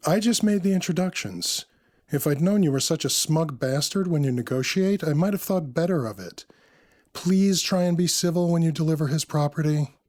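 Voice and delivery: high, lighter woman's character voice; chiding woman. A narrator's reading. Narrator voices Samantha chiding.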